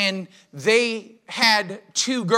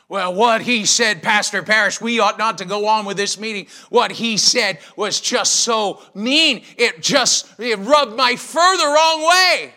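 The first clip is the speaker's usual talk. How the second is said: offended churchgoer; 3 semitones higher, 6 dB louder than usual. Retold or imitated. Offended congregant complaining.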